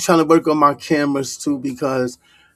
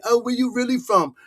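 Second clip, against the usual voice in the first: mocking question; 6 semitones higher than usual. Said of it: "y'all be like".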